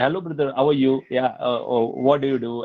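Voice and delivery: quick, casual South Indian accent. Shown as a demonstration. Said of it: "I can talk like that also".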